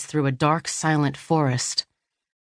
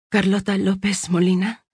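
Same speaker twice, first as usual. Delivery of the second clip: wary and serious; 3 semitones higher than usual. A narrator's reading. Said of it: "wary and serious".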